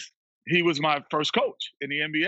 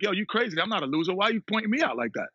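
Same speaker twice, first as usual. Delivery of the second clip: mildly indignant, higher-pitched protest; retold indignant comeback; 5 semitones higher, faster than usual. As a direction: act out talking back to the coach. Imagined indignant comeback to coach.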